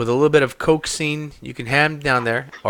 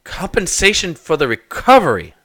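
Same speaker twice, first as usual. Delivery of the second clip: offended echo; 4 semitones higher, 3 dB louder than usual. Acted. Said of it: "look almost offended".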